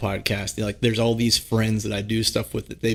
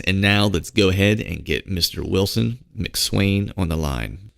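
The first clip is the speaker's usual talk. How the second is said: lower-pitched podcast ad read; sponsor ad read; 4 semitones lower than usual. Acted. Host pitching sponsors to listeners, scripted ad read. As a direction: read out the sponsor copy, steadily.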